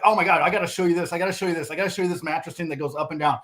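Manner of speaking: fast, tumbling repeats, energy fading off; imitating rushed excitement. Brent rushing a customer to show the bed, fast excited. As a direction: gush like you can't wait to show it. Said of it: "sometimes I know I get so excited".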